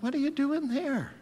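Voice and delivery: high, strong calling voice; God rousing him. Retold or imitated. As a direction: shake him out of his pity party. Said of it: "And God says".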